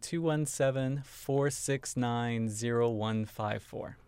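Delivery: phone number read out slowly, digit by digit; measured, drawn-out dictation of a phone number. Real, not acted. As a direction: say each digit slowly and clearly. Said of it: "Say that again a little more slowly".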